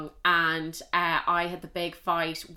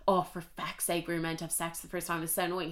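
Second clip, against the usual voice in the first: mock annoyed boyfriend; 5 dB quieter than usual. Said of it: "He wasn't like".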